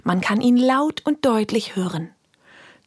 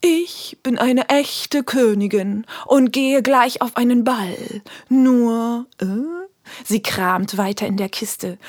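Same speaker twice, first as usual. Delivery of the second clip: hollywood starlet; 4 semitones higher than usual. Acted. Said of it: "Mit rauchiger Stimme sagt sie langsam".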